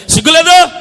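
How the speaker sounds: high, very loud rebuke; explosive indignant outburst; scolding shout. Acted. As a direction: shame them with a sudden shout. Acted scolding of the fake weepers.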